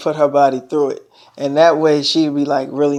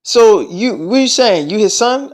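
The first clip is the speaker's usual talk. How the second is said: higher-pitched incredulous questioning; retold disbelief; 5 semitones higher than usual. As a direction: imitate her double-checking in surprise.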